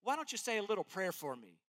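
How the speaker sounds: breezy, offhand, rushed; a hint of a careless Paul; mock casual request. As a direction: toss off a throwaway ask, quickly. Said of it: "He's not saying".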